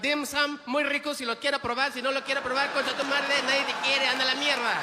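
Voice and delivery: high-pitched, rapid mock Asian accent in Spanish. Comic imitates Asian vendors in Mexico, high Asian-accented Spanish. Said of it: "those Asian people, they speak Spanish".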